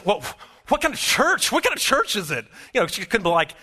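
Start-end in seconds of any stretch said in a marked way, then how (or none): 0.0-2.5 high-pitched, incredulous retold squawk; mock breathless shock. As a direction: imitate a stunned woman, pitched way up. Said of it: "took her out of breath".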